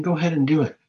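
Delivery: a sly, changed tempter voice; devil's urging. Retold or imitated. The devil urging someone to sin, sly. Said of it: "the devil's saying".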